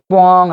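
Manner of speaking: a drawn-out booming "뻥"; imitated trumpet blare. Shown as a demonstration. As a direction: mouth a trumpet's honk. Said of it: "하는 소리 나는 거".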